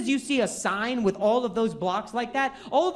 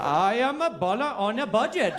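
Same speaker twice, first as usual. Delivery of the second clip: bad Irish accent. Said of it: "do an Irish accent".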